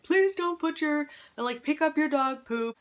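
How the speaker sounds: a gently mocking take on a fussy neighbor complaining about dog poop; lightly hammed-up busybody; nagging neighbor post. Mimicking neighborhood Facebook posts.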